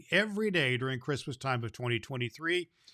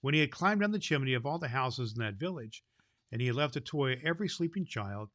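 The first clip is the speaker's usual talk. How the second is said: lively read-aloud, a bit louder than chat; storybook reading; 4 dB louder than usual. Acted. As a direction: read it to the children with wonder. Reads a Santa storybook aloud.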